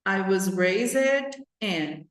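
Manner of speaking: very slow, groping for words; hesitant slow recall. Shown as a demonstration. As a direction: act out forgetting the line. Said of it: "vamos supor que eu enrosquei".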